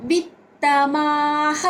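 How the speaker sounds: విత్తమాహ with a long "maa" and an echoed "ha"; final visarga sounded. Shown as a demonstration. Teacher showing how to say విత్తమాహ, visarga as "ha". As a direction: end విత్తమాహ on an audible breathed "ha". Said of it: "అని పలకాలన్నమాట".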